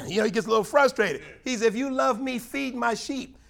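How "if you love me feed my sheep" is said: slow, weighty command; solemn quoted charge; a hint of Jesus speaking. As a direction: lay down feed my sheep deliberately. Jesus voiced, slowing on command.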